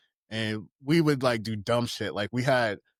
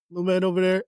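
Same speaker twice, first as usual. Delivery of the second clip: stepdad impression; 6 semitones higher, 4 dB louder, faster than usual. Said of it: "stepdad's voice down pat".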